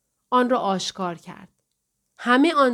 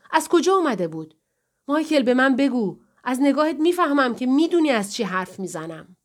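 higher-pitched, pressing interrogation; urgent, accusing questions; insistent confrontation; 5 semitones higher than usual. Acted. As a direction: press him hard for the truth. Wife confronts husband, demanding truth.

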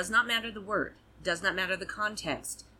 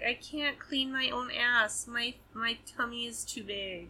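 cat's voice; 4 semitones higher, 4 dB quieter, slower than usual. Pretend. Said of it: "He's like".

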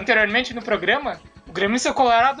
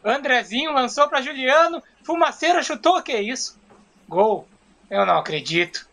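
dejected commentary; slower than usual. Acted. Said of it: "no mesmo entusiasmo que ele deve ter ficado".

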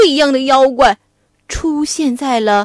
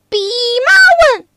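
hammed-up furious pig demon cursing; mock angry scolding; 8 semitones higher, 4 dB louder, faster than usual. Pig demon curses Wukong while swinging his rake, mock angry. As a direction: spit out the insults like a brawler. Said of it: "大骂悟空".

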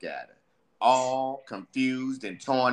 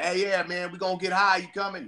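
higher, loose party-friend voice; tempting homie; 8 semitones higher, faster than usual. Acted. Friend inviting him to get high, higher and loose. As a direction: lure your buddy out to get high. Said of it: "and they like".

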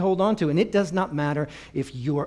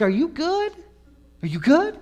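worried alarm; 11 semitones higher than usual. Retold or imitated. Family worried, high pitch.

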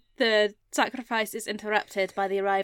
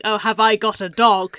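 laughing; 8 dB louder than usual. Retold or imitated. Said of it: "And he's like".

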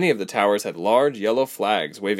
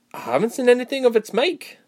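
put-on young man's voice. A narrator's reading. Boy speaks, young man voiced.

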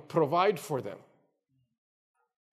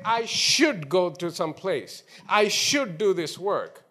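SHOULD leaned on, slow phrase; slow down and press on the word SHOULD; stress on SHOULD; slower than usual. Shown as a demonstration. Preacher showing what a duty sounds like, stress on SHOULD. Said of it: "there is an emphasis on that word".

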